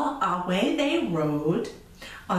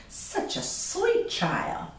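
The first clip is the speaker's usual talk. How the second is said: sweet stranger; 12 semitones higher, slower than usual. Acted. Stranger's quote in read story.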